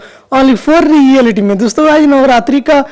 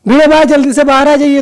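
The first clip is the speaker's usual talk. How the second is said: mock shout, pitched up a little; loud call; 4 semitones higher than usual. Abdul calling Bhide out through the speaker, mock shout. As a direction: call it out over a blaring speaker. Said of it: "तो बहुत जोर से बोलता है".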